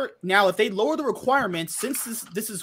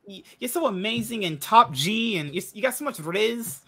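higher, badly imitated South African accent; Kitty's accent; 4 semitones higher than usual. Quoting a streamer's praise of the host, in a South African accent. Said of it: "Doesn't she talk like that?".

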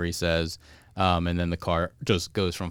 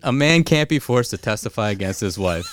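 laughing through a quote; 6 semitones higher, 5 dB louder than usual. Retold or imitated. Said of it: "Homer says".

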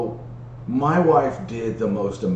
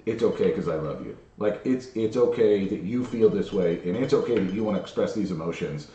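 calmly reassuring. Retold or imitated. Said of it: "just calmly saying".

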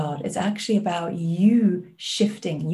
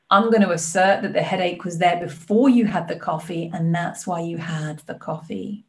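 firm coach in a mock American accent; lightly imitated American accent; bad American accent. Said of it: "sorry for a bad American accent".

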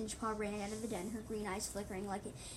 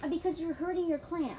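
angry shout; 7 semitones higher, 7 dB louder than usual. Acted. Arguing with the voice.

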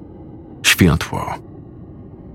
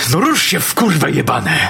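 high, frantic yelled commands; angry shouting; 7 semitones higher than usual. Acted. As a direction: scream orders at the killer. Sergeant confronts armed killer.

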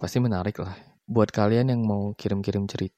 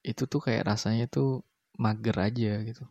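talking around a cigarette; lazy speech between drags of smoke; cigarette in mouth. Real, not acted. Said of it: "Gua sambil ngerokok".

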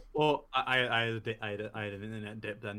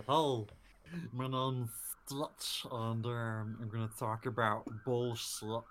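Stitch. Acted. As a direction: introduce yourself in a silly creature voice. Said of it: "this is the voice that me and Laura do".

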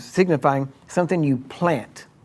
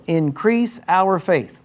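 slow scripture reading; 4 semitones higher, much slower than usual. Shown as a demonstration. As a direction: read slowly and evenly, a touch higher. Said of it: "it sounds like a decent request".

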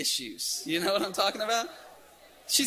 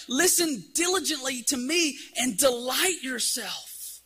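higher, slow, drawn-out appeal; crying out; 4 semitones higher than usual. Retold or imitated. Preacher voicing Isaiah's plea to the people, crying out. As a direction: call it out slowly, stretching the key words. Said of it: "Isaiah's crying out".

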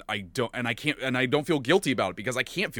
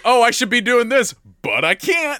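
laughing; 11 semitones higher, 6 dB louder than usual. Retold or imitated. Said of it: "It's like".

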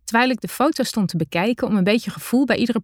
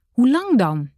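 still disbelieving; 4 semitones higher, 3 dB louder than usual. A narrator's reading. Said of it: "riep ik vol ongeloof uit".

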